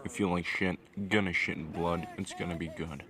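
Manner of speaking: groggy, just woke up; morning voice. Real, not acted. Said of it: "excuse the fucking morning fucking voice, like, I just woke up".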